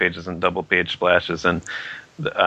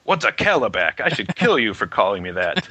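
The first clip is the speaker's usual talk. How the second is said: mock outrage; 2 semitones higher than usual. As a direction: play-act indignant fury, half laughing it off. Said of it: "rage-induced that he's pissed off".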